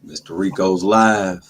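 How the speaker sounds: slow, loud hype-man call; hype announcer. Acted. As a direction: announce him like a ring entrance. Hyping the guest's arrival.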